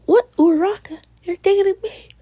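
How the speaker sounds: high, indignant disbelief; offended surprise. Acted. Boyfriend stung by Uraraka's jab, high offended surprise. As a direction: rise up in wounded surprise.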